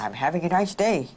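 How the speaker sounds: mild put-on anger; angry voice. Shown as a demonstration. Twin tries an angry voice for the examiner, mildly angry. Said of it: "say it in an angry voice".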